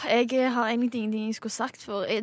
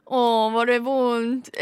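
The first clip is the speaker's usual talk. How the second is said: mock pity; 5 dB louder, much slower than usual. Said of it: "Gjør det på kødd".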